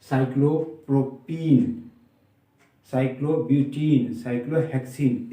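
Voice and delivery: साइक्लोप्रोपीन, साइक्लोब्यूटीन, साइक्लोहेक्सीन each ending in long "een". Shown as a demonstration. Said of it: "उसका उच्चारण".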